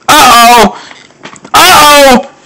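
high falling sing-song uh-oh. Real, not acted. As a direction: chant it high like a warning. Sing-song alarm during game.

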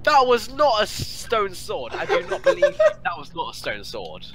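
high, loud, laughing outrage; incredulous laughing yell; laughing disbelief. Real, not acted. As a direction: shout your disbelief through laughter.

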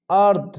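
আরদ with the a held two beats and a firm d; stretched stop. Shown as a demonstration. Teacher demonstrating pause, long held vowel. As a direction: hold the a in আরদ, then stop. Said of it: "দুই আলিফ টান চলে আসছে".

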